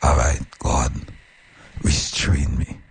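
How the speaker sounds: a soft murmured prayer; quiet prayer. Shown as a demonstration. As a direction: pray it quietly, word by word. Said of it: "Constantly say".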